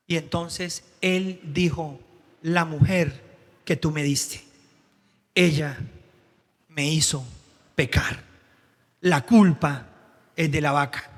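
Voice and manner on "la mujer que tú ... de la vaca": low, grudging blame of the wife; a hint of sulky contempt; contemptuous blame. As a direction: push the fault off onto her. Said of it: "cómo habla con desprecio".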